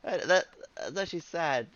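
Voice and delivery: high giggling reaction; laughing. Real, not acted. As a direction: laugh it out, amused pity.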